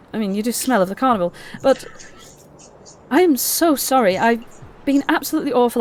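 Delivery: lightly voiced repentant knight girl; remorseful young woman. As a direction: pour out a heartfelt sorry. Gleam's long apology speech.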